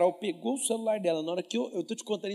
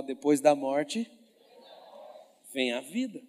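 "Depois da morte" mais baixo e lento; mais grave e contido; 4 semitones lower, slower than usual. Shown as a demonstration. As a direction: diga devagar, voz grave, sem gritar. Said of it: "Fala assim com a sua boca". (pregador repete a frase, mais grave e calmo)

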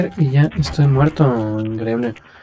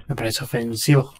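laughing; 5 dB quieter than usual. Shown as a demonstration. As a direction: say it through a chuckle.

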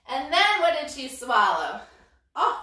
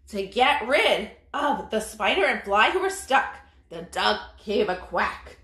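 lively storybook reading for little ones; story reading to children. A narrator's reading. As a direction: read it like a bedtime picture book. Reads picture book aloud to kids.

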